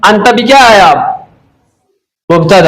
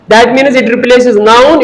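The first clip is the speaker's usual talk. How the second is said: very slow explanation; much slower than usual. Shown as a demonstration. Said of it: "तुम means तुम".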